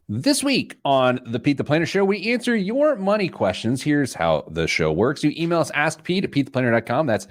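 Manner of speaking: lively host opening with big pitch swings; practised on-air introduction; radio show intro. Acted. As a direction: kick off the show, lifting the key phrases. Reads the show's opening.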